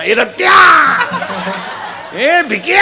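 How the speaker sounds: imitating drunks yelling each other's names; drunken calling out. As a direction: holler names like tipsy friends. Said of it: "हाका मारायचा".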